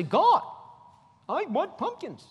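high whiny complaining to God; mock whine. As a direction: whine it like a spoiled believer.

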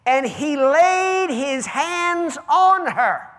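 loud, high, stretched-out preaching; preaching at full force. Acted. Pastor to congregation, retelling the healing in full-force preaching. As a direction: build the story up like a revival preacher.

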